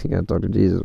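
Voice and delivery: chuckling at your own joke; laughing repeat. Real, not acted.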